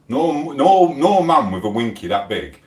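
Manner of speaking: loud, heated outburst; angry rant. Real, not acted. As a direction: shout him down in indignation. Heated rant about a rival.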